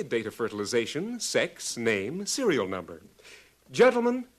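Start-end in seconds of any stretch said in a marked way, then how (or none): 3.7-4.3 calling out. Acted. Calling the students to attention.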